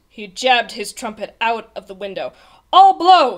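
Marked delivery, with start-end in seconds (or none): 2.7-3.4 high, forceful shout. A narrator's reading. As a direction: bellow a bold resolve. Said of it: "he shouted".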